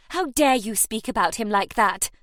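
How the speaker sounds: loud indignant retort; flashing anger. Acted. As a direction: fire back in outrage. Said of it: "Nell flashed".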